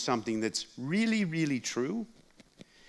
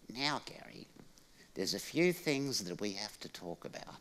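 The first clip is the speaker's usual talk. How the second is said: hushed serious mum; 2 semitones lower, 10 dB quieter than usual. Retold or imitated. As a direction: drop to a grave hush before a lecture. Mum about to lecture quietly.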